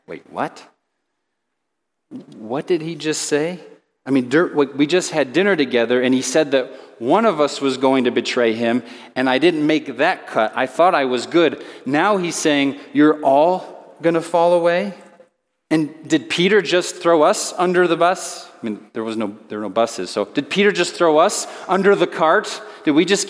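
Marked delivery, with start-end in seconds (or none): 0.1-0.6 low, hushed double take; bewildered inner thought. Retold or imitated. Quiet disciple reacting inwardly to Peter's boast, bewildered. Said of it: "thinking to themselves". 2.4-18.5 puzzled questions with rising endings; bewildered inner thought. Retold or imitated. Disciple silently wondering about Peter's boast, bewildered. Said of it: "internal processors in that group".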